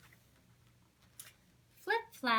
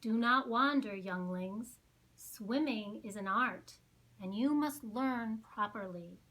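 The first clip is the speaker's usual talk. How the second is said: cautioning teacher; 4 dB louder than usual. Acted.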